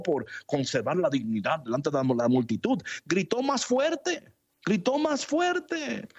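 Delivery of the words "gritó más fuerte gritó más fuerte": higher, slower call that rises to a cry; building cry. Acted. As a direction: lift the voice as if crying out over a crowd. Preacher echoes Bartimaeus' loud cry. (clamor que crece)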